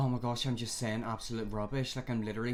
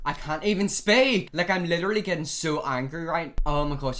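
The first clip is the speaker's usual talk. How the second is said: louder, exasperated outburst; getting angry; 3 semitones higher, 6 dB louder than usual. Real, not acted. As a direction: vent real frustration at being tongue-tied. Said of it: "I'm actually getting really angry right now".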